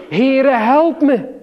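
loud, high cry for help; calling out. Retold or imitated. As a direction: roep het uit als een blinde bedelaar. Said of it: "Bartimaeus riep". (luide, hoge smeekroep om hulp)

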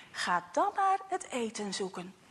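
a hint of a sad mother. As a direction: let the disappointment weigh it down. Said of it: "zegt ze verdrietig".

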